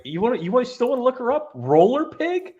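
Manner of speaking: imitating the character. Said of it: "she's like".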